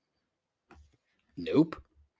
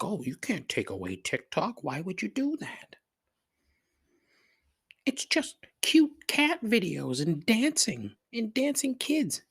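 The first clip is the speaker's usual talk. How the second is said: high-pitched mocking whine; mock protester; 12 semitones higher than usual. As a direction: imitate a naive objector in a silly high voice. Mocking TikTok defenders' protests.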